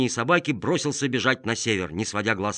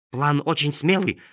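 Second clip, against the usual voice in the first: lightly barked dog voice; a hint of a barking dog; cartoon dog; 5 semitones higher, 4 dB louder than usual. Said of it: "пролаяла собака".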